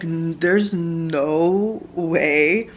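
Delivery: slow, drawn-out disbelief; acting out slow incredulity; retold disbelief. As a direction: stretch each word out, stunned. Retold disbelief at test result.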